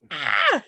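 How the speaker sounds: short, high imitated shriek; a quick high-pitched mock scream. Comic imitating the young fan's reaction, high mock scream. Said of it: "She's screaming her head off".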